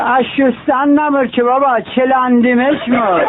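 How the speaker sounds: mock Qazvini drawl on چلاندیمش مر; Qazvini accent. Qazvini man answering his neighbour, light Qazvini accent. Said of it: "یارو قزوینی میگه".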